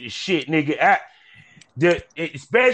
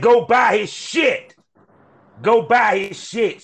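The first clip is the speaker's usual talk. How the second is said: slow, raised, punchy sales push; hyped plug; 4 semitones higher, 3 dB louder, much slower than usual. Real, not acted. Host telling listeners to buy guest's work, slow hyped sign-off. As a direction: drag out each word and push it up high.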